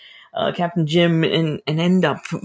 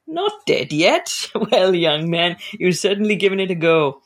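chuckling doctor. Acted. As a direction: let the doctor laugh at his patient.

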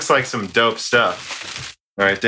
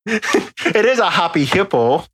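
hammed-up German accent, higher pitch; 5 semitones higher than usual. Host joking about the hippo candy, high mock German accent. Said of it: "say it in a German accent".

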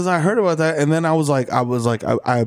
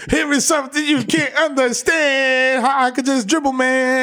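put-on old player voice; 10 semitones higher, slower than usual. Voicing old player boasting.

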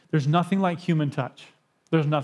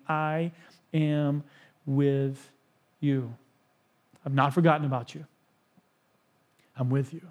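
tender reassurance; 2 semitones lower than usual. Acted. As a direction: speak as God gently promising to stay close. God speaking comfort to his people.

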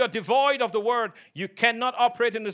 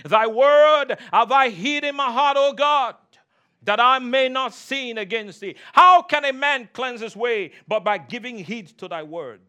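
scripture declaimed; 5 dB louder than usual. Real, not acted. Preacher quoting verses on hiding the Word, declaimed. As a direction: recite scripture with preaching force.

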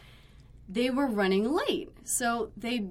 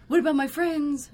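louder, higher mock protest; indignant Italian guest; 5 semitones higher, 5 dB louder than usual. Upset guest asking after his friends, mock indignant. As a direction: imitate an upset customer, no real accent. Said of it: "except in an Italian accent, which I can't do".

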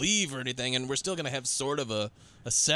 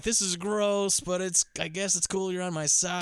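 a hint of grossed-out but loyal girlfriend; mock squeamish partner; 5 semitones higher than usual. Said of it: "She's always a little bit like".

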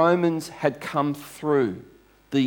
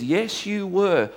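higher, drawn-out contradiction; insistent retort; 8 semitones higher, slower than usual. Retold or imitated. Servant girl to Peter denying he was a follower, insistent retort. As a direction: imitate a girl firmly contradicting a denial.

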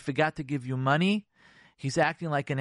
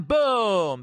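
loud, high, drawn-out boom; explosive; 5 semitones higher, 6 dB louder than usual. Acted. Bottled-up quarrel suddenly blowing up, explosive. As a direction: burst out like an explosion. Imitates the blow-up.

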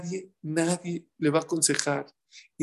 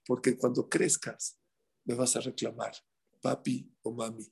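gentle parent advice; 5 semitones lower, 3 dB quieter than usual. Retold or imitated. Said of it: "Nada más dile una cosa".

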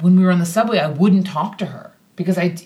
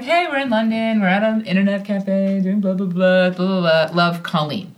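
lightly singsong rattle through a chatty email; glossing over it in a singsong; breezy email recital. Retold or imitated. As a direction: reel off a cheery message home. Reads out her breezy email.

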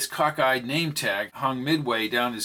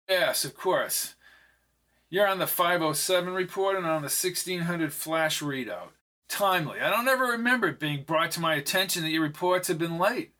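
lightly higher, unhurried condescending boss; a hint of a smarmy charmer; smooth smug executive; 5 semitones higher than usual. Ricardo voiced by narrator.

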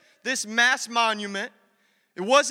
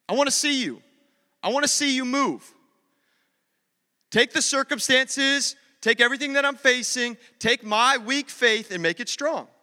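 fervent prayer; 2 semitones higher than usual. Shown as a demonstration. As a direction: plead it out with rising conviction. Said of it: "just pray this prayer".

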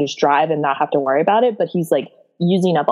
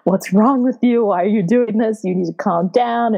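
raised-pitch mock yell, no real shout; 4 semitones higher than usual. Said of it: "Simon is yelling at him".

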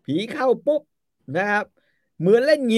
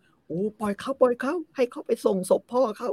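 high mock innocence; 10 semitones higher than usual. Phra Aphai voiced innocently.

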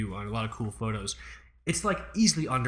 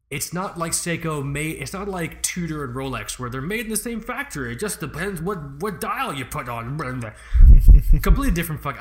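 nasal smug neckbeard, pitched up; 3 semitones higher, 10 dB louder than usual. Pretend. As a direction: sneer it like a know-it-all nerd. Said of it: "I should stop doing the neck beard voice".

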